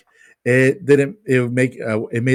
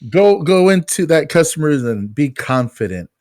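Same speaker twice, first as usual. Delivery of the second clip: pep-talking boss; 4 semitones higher than usual. Retold or imitated. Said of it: "they're like".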